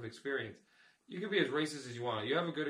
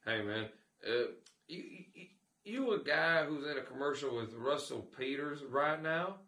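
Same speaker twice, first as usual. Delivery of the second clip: imitating the racist guy. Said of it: "this is how he really talked".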